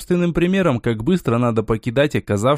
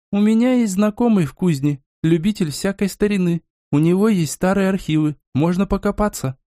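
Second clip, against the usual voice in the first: higher-pitched character making an offer; lightly voiced companion; 5 semitones higher than usual. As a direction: lightly act a companion's helpful suggestion, pitched up. (слегка сыгранный спутник, голос повыше)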